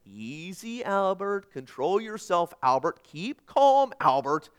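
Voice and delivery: drawn-out, lilting calm-down to oneself; lightly acted father keeping himself in check; softly soothing father. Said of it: "he softly said".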